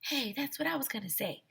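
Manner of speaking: high, bright character voice; lighthearted protest; girlish squeak; high childlike voice. Acted. Narrator protesting then principal.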